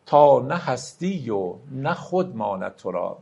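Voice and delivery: measured, drawn-out verse reading; slow poem recital. Acted. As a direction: recite the couplet slowly and solemnly. Recites Rumi verse slowly. (دکلمهٔ آرام شعر)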